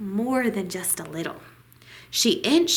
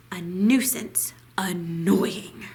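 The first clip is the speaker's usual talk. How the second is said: muttered aside; 3 semitones lower, slower than usual. A narrator's reading. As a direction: let it drop to a breathy hush of annoyance. Narrator dismissing nosy neighbors.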